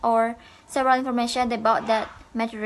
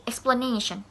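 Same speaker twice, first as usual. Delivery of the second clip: "Explanation" said expla-NA-tion; stress on middle syllable. Shown as a demonstration. Teacher modelling the related word, stressed "explaNAtion". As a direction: lean on NA in "Explanation". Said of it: "also in the middle of the word".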